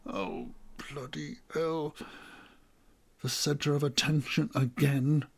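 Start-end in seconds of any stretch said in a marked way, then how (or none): 0.1-1.9 muttered curse. Acted. Embarrassed as room falls silent.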